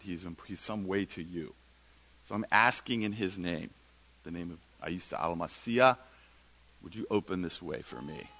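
low, soft, hushed retold prayer; earnest prayer. Student pleading with God on the floor, soft and earnest. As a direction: pray it quietly and sincerely. Retells a woman's whispered prayer.

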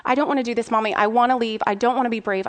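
mock little-kid protest, insistent but not really crying; retold crying. Son begging mommy to leave, retold crying. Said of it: "he was crying and crying".

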